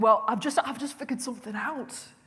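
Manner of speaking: put-on Northern English accent, high and loud. Retelling a phone call from mum: imitating mum's Northern English accent. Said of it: "My mum's Northern English".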